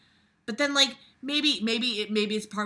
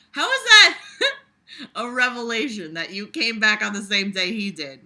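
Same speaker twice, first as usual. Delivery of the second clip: laughing disbelief; 3 semitones higher, 8 dB louder than usual. Real, not acted.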